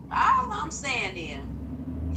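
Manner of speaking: put-on slow, drawn-out old lady voice. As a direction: drag it out like a preachy grandma. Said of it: "put my old lady voice on for this".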